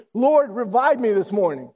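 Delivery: slow, deliberate call for the church to echo; leading a prayer. Shown as a demonstration. Pastor to congregation, slowly leading a spoken prayer. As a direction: lay each word out slowly. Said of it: "please repeat with me".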